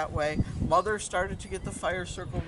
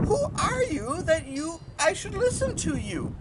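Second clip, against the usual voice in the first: high, loud, indignant question; challenging; 12 semitones higher, 5 dB louder than usual. Acted. Father challenges the mysterious voice, raised and indignant. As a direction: demand an answer from the unseen speaker.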